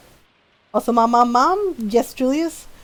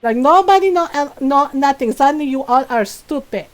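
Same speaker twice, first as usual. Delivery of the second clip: imitating a furious mom, higher and louder; sarcastic scolding mom; mock angry tirade; mom going off; 3 semitones higher, 5 dB louder than usual. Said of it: "she went off on them".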